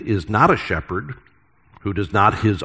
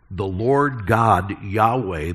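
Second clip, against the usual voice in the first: read with awe; slower than usual. Shown as a demonstration. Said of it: "we should read it with a sense of awe".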